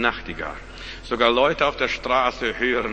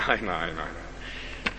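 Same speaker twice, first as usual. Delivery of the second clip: laughing no; 10 semitones lower, 11 dB quieter, much slower than usual. Real, not acted. Laughing denial.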